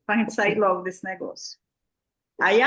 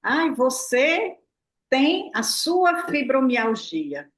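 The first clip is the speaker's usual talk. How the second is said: slow, drawn-out imitation of a pitying voice; imitating people who say the illness is yours, slowly; mock pitying voice; much slower than usual. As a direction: mimic someone handing you a diagnosis. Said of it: "uma linguagem que diz assim".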